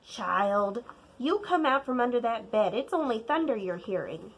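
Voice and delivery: put-on an old grandma reading the weather. Grandma to child, lightly voiced grandmother.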